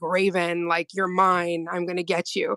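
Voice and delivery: deep, dropped lava demon voice. Retelling a dream where a demon rose from the lava, deep booming demon voice. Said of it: "this deep booming voice".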